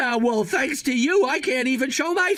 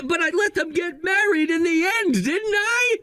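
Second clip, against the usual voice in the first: desperate shout; 5 semitones higher than usual. Acted. Cornered husband desperately justifying himself.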